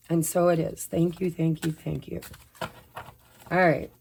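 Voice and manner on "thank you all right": normal talking voice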